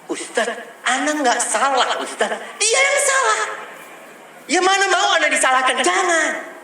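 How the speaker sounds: suara tinggi merajuk membela diri; istri merajuk. Retold or imitated. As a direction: tirukan istri yang tak mau disalahkan, nada tinggi. (istri membantah ustaz, suara tinggi merajuk)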